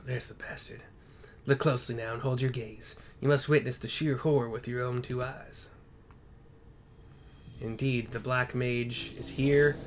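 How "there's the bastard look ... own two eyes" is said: hushed second take. Acted. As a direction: breathe "There's the bastard" unvoiced. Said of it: "He probably talks more like this".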